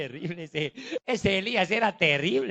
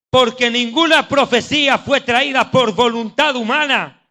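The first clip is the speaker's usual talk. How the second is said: emphatic preaching; 2 semitones higher, 6 dB louder than usual. Real, not acted. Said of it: "Esto escuche".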